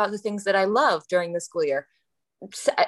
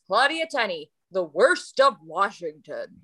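ad voice. Retold or imitated. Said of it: "he says it in that voice".

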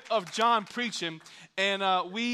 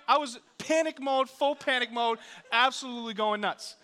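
worked-up panic; 5 semitones higher, 3 dB louder than usual. Retold or imitated. Retells panic, still worked up.

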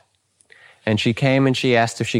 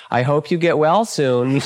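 teasing well-wish through a chuckle; playful mock sympathy, chuckling; 3 semitones higher than usual. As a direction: wish them well while laughing. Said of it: "he'd look at him and he'd say".

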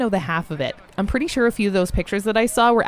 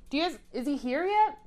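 hushed aside; 6 semitones higher, 8 dB quieter than usual. Acted. Whispering aside to others.

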